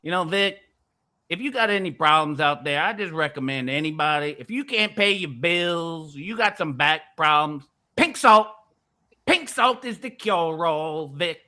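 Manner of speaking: lightly put-on country accent; a hint of country, stretching key words. Selling pink salt to Vic, lightly put-on country voice. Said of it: "I'll do it in the country voice now".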